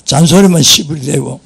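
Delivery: 잔소리만 said again in broad Gyeongsang dialect, 잔소리만 leaned on. Shown as a demonstration. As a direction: switch into Gyeongsang dialect with 시부리 대고. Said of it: "경상도 말 해야 되겠다".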